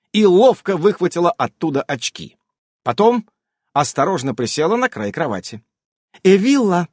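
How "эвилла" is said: commanding. A narrator's reading. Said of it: "распорядилась она".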